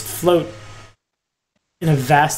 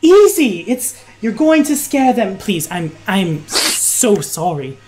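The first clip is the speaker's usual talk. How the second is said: flustered calming; 4 semitones higher than usual. Acted. Woman calming hobgoblin before scared guests, apologetic.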